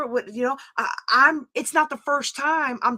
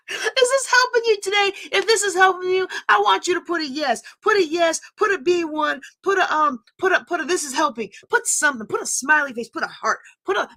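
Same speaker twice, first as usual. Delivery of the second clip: excited call to comment; 4 semitones higher than usual. Real, not acted. Calling on viewers to comment.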